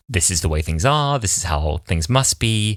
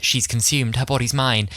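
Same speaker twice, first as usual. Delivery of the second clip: lightly voiced possessed villain, raised pitch; a hint of imperious villainy, higher; Jenny; 6 semitones higher than usual. Possessed maid confronting Martha, lightly acted villain voice. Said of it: "I wish I could do an impression of this bit".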